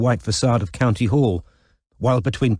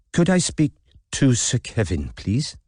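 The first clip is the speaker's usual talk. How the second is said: put-on a shaky, half-hearted Welsh accent, pitched up; poor Welsh accent; 3 semitones higher than usual. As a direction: Robin faking Welsh on the phone, unsure of it. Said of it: "affected what she was afraid was a poor Welsh accent".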